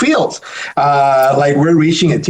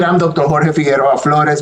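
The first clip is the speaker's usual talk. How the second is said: Spanish-accented name. Real, not acted. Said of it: "Puerto Rican Hispanic accent there".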